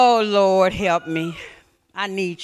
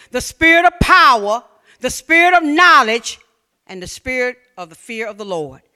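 building sermon list. Acted.

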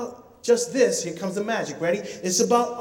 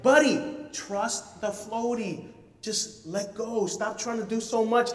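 reassuring dad; slower than usual. Retold or imitated. Calming his scared son.

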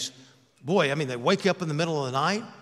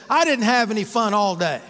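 put-on mildly wailed child's protest, higher and louder; mock tearful complaint; 4 semitones higher, 5 dB louder than usual. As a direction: imitate an upset little boy's complaint. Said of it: "profusely just crying".

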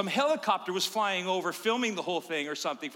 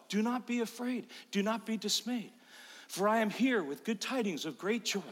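lightly voiced angel, hushed and biblical. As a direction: speak like a calm heavenly messenger. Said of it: "She goes".

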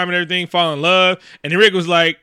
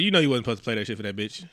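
mock hissed scolding; 7 semitones lower, 10 dB quieter, faster than usual. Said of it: "He was like".

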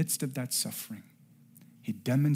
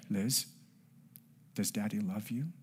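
gentle fatherly question; 5 dB quieter than usual. Retold or imitated. Dad gently reasoning with crying daughter.

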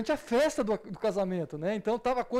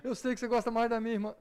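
put-on sulky child. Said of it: "A gente faz isso".

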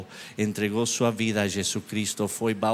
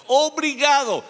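grateful cry; 13 semitones higher, 5 dB louder than usual. Real, not acted. Thanking God after good news.

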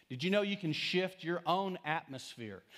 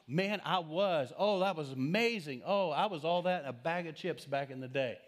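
boastful has-been; 3 semitones higher than usual. Acted. Preacher mimicking someone stuck in the past, mock bragging. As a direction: play up the glory-days brag.

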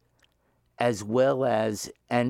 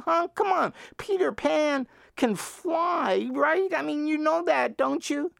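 high, hammed-up rant; a voice crying in the wilderness, half-joking; mock bellowing; 13 semitones higher than usual. Vin haranguing passers-by about magic, hammed-up bellow. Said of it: "bellowing to the embarrassed amazement".

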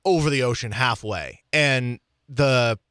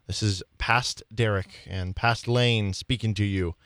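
cryptic future message; 5 semitones lower, 3 dB quieter than usual. Pretend. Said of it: "You made that sound so cryptic".

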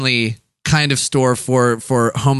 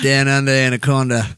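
put-on Australian accent. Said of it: "You do a really good Australian accent".

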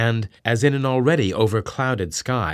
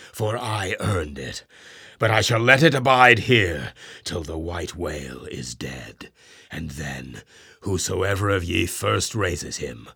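solemn vow; 3 semitones lower than usual. Acted. Ahab promises the gold to his men, solemn. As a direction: swear it before the crew.

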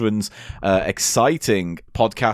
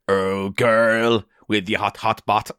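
put-on Jamaican accent; 5 semitones lower, much slower than usual. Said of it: "in a cod Jamaican accent".

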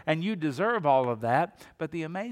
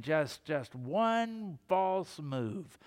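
mock threat; 4 dB quieter, much slower than usual. Imagined threatening God.

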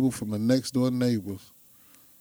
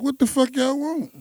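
annoyed; 13 semitones higher than usual. Retold or imitated. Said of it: "I was like".

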